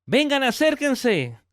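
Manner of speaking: a father calling his workers in overjoyed; joyful call to servants. Retold or imitated. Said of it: "Le grita a sus empleados". (el padre llama a sus empleados con alegría, voz alta y lenta)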